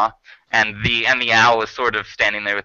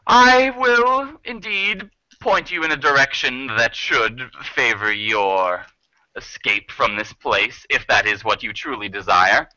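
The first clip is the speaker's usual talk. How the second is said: formal bargaining owl. Acted. Owl offers the travelers an escape, formal and deliberate.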